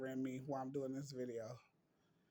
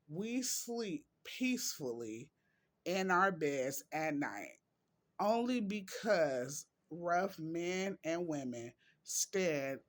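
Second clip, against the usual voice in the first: quote reading. Acted. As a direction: read each phrase out deliberately, with pauses.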